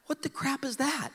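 high, hushed dismay; retold disbelief. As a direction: squeak it in disgusted bafflement. Boy appalled at tiny prize, retold.

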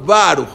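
Baruch, first vowel between "ah" and "oh"; loud Baruch with a half-rounded A. Shown as a demonstration. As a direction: round the A in Baruch slightly toward O. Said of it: "entre una A y una O".

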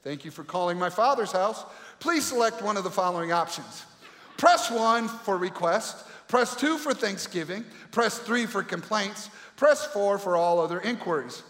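automated phone menu, lightly done. Pretend. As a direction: read it like a recorded hotline. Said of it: "Imagine praying and hearing this".

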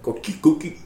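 coqui frog call. Retold or imitated. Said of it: "in Puerto Rico, they go like".

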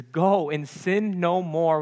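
smiling and joyful. Shown as a demonstration. Jesus freeing the woman, said with a smile. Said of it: "with a smile on his face and joy in his heart".

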